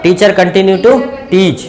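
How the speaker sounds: very slow, word by word; measured classroom dictation pace. Shown as a demonstration. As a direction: read it out slowly for the class to copy. Teacher dictates English model sentence.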